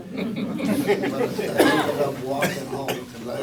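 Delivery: laughing through the words; amused, laughing aside. Real, not acted. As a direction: chuckle while telling it. Veteran laughs recalling taxi fare.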